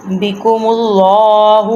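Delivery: slow "اللہ" with a thick, dark, long l-aa; heavy lam. Shown as a demonstration. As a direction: thicken the doubled l of "اللہ" and draw it out. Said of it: "ادھر لام کو موٹا کرتے ہیں". ("اللہ" کا لام موٹا کر کے)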